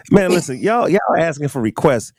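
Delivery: high squeaky cartoon voice; chipmunk voice. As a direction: pitch way up like a chipmunk. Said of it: "Do your chipmunk voice".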